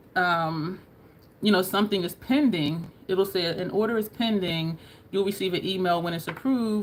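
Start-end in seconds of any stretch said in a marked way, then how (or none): none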